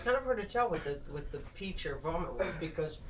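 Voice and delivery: talking with a mouthful of jelly bean; chewing while talking. Real, not acted. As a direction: chew as you speak. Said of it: "I kinda smell vomit when I'm chewing it".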